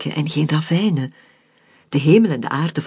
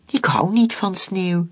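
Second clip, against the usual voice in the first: Fleur's voice; 4 semitones higher than usual. Acted. Fleur speaks, dog narrator voices her.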